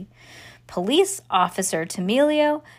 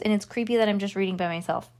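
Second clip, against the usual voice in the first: usual speaking voice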